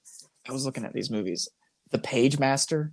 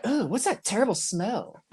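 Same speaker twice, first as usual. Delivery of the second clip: put-on high, grossed-out girls; girly disgusted voice; 9 semitones higher than usual. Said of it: "they're like".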